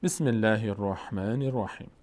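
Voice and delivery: slow, measured Arabic recitation; slow formal recital; Quran recitation. Shown as a demonstration. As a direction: recite the opening formula with drawn-out vowels. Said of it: "در ابتدای هر تلاوت".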